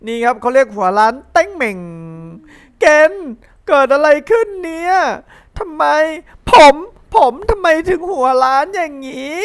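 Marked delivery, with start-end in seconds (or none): 2.3-9.4 alarmed mother. Acted. Mother shocked at Gen's bald head.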